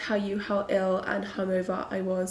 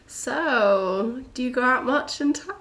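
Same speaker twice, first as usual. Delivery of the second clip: drawn-out, slightly raised, stilted small-talk opener; awkward small talk; 3 semitones higher, slower than usual. Retold or imitated. Stuck with the ski instructor on a chairlift, awkward small talk. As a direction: imitate trying too hard to make conversation. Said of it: "It's so awkward".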